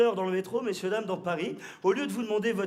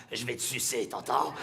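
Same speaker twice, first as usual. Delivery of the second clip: vampire voice; 8 semitones lower, 4 dB quieter than usual. Acted. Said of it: "un vampire".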